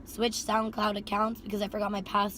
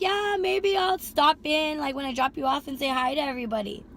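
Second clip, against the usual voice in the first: mock eager; 4 semitones higher than usual. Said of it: "I was completely fucking around".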